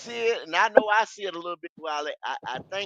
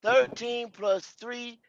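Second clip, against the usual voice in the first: over enunciating; 3 semitones higher, much slower than usual. Retold or imitated. Reading a comment to correct Wiley.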